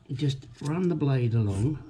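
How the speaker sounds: straining while cutting; grunting with effort. Real, not acted. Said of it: "sorry about all the grunting and groaning".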